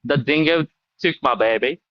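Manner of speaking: shaky stab at an Aussie accent; attempted Australian accent. Shown as a demonstration. American guest attempts a famous line on request, Australian accent. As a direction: try an Australian accent, not quite managing it. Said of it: "I'm so bad at accents".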